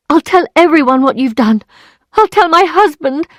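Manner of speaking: high, loud furious threat; threatening. Acted. Emma threatening to tell her husband, climbing in fury.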